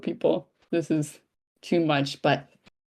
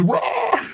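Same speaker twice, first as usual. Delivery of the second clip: raised roaring screech; pterodactyl screech. Shown as a demonstration. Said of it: "do, like, a pterodactyl screech".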